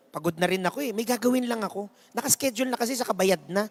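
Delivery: a hint of an exhausted old woman; tired old woman.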